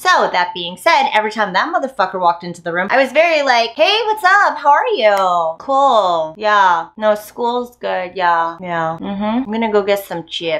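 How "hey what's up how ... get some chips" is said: acted super deadpan voice, giving away no feeling at all. Retelling how they spoke whenever he walked into the room, super deadpan. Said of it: "Super deadpan".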